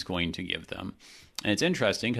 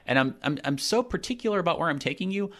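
God, excited; 5 semitones higher than usual. Retold or imitated. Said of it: "he's like".

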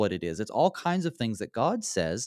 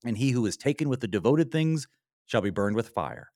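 normal talking voice

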